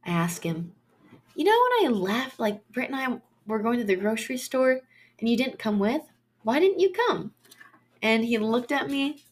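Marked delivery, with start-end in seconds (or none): 1.3-7.3 lightly acted puzzled question, rising high at the end; mock-puzzled, pitch jumping on the final question. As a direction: replay asking your partner for an explanation. Retelling her question to partner.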